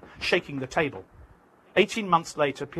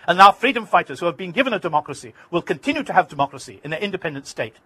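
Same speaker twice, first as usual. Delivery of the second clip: proud declaration; 3 semitones higher, 7 dB louder than usual. Retold or imitated. Arafat proudly dreams of democracy.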